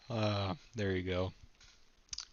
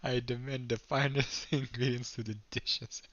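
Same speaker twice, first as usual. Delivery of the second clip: put-on French accent; 3 semitones higher than usual. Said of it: "I can't even fucking do a French accent".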